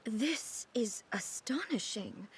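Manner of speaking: hushed awe. Acted. Awed at the photo.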